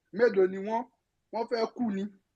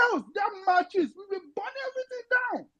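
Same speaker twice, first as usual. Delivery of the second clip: passionate shout; 4 semitones higher than usual. Real, not acted. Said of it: "that was quite passionate".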